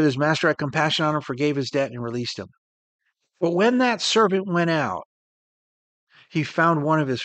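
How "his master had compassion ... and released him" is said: quicker recap. Shown as a demonstration. Preacher quickly repeating the verse for the congregation, fast. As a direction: rattle back through the line quickly to drive it home. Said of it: "So it says here".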